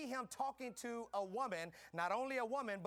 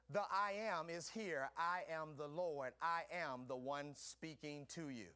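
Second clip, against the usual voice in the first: gentle voice of God; 6 semitones lower, slower than usual. Acted. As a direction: speak slowly like God whispering in the heart. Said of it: "he comes and he says".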